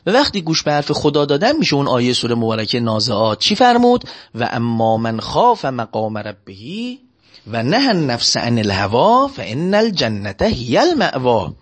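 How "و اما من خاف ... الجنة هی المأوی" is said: Quran recitation. Acted. Quotes verse of Surah Naziat.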